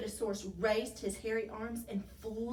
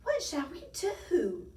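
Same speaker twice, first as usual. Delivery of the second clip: high, slow worried plea; distressed; 6 semitones higher, 4 dB louder than usual. A narrator's reading. Tiny watching the snowman near the edge, distressed. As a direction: wail it helplessly.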